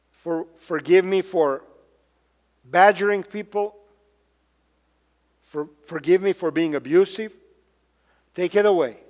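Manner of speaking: hushed contrite prayer; humble prayer. Pretend. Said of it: "and we say".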